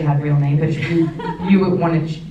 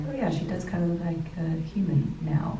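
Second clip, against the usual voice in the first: breathy whisper, half to herself; hushed aside; 6 dB quieter than usual. Retold or imitated. An onlooker quietly noticing Barbie has become human, whispered. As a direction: let the realization slip out under your breath. Imagined onlooker's dawning thought.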